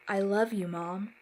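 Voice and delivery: choked, tearful declaration; through sobs. Acted. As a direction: force it out while sobbing. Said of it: "he mustered out through the sobs".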